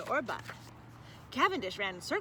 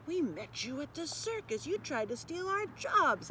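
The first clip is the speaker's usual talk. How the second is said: higher, tense growl of a poodle; 5 semitones higher than usual. Acted. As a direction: snap this at the rival robots. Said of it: "I growled".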